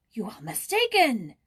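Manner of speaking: loud, high protest; crying out. Acted. Old man denying Joyce's claim, loud cry. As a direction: cry out trembling. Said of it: "cried the old man".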